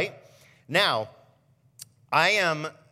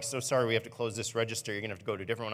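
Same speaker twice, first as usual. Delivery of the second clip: mock cashier; 6 semitones lower, 7 dB quieter, much faster than usual. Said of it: "They're like".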